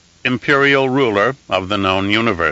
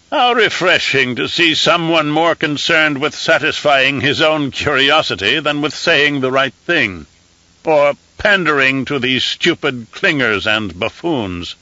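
high, thin voice of an aged emperor; an old ruler used to giving firm commands; reedy scratchy old voice; 4 semitones higher than usual. Acted. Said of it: "in a reedy, scratchy voice".

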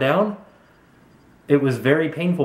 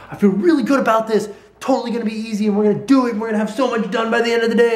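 mock overconfident self; 9 semitones higher, faster than usual. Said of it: "yesterday and the day before I was like".

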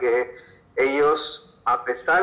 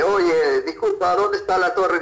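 higher-pitched polite street question; tourist asking a stranger; 5 semitones higher than usual. Acted. Traveler stops someone on a Chinese street, imitated polite asking. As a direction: raise the voice to stop a passerby.

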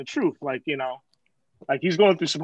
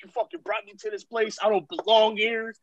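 mild mock plaintive complaint; retold guilt-tripping; 3 semitones higher than usual. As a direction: imitate a friend laying on guilt. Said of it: "he starts guilt tripping me".

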